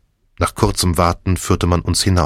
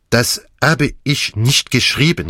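put-on raised-pitch exclamation with a French accent; crying out in denial; 6 semitones higher than usual. A narrator's reading. Poirot denies writing the card, crying out. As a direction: call out a protest. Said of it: "rief Poirot".

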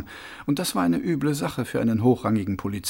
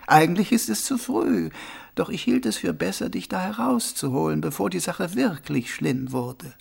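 raised, partly whispery stranger's voice; mysterious unseen friend; 5 semitones higher than usual. Acted. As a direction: explain mysteriously, higher and half-whispered. Unseen friend explains to Mumm. (geheimnisvolle, halb geflüsterte, hohe Stimme)

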